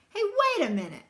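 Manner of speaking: high, loud call after him; bully calling Brother back. Acted. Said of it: "called Too Tall".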